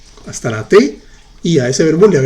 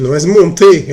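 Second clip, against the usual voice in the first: monter punched louder, as the wrong form; corrective stress; 3 semitones higher, 6 dB louder than usual. Shown as a demonstration. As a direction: hit monter as the mistake to fix. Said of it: "el verbo no es montar".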